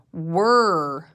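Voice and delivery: whispered "Were"; whispered word. Shown as a demonstration. Teacher to class, whispering the sight word.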